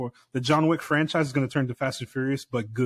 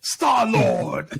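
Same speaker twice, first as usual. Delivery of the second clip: mock crying character voice; 8 semitones higher, 4 dB louder than usual. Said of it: "He's like".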